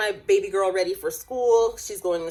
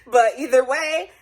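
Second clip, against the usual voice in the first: fighting tears; 6 semitones higher, 6 dB louder than usual. Real, not acted. Tearing up, laughing it off.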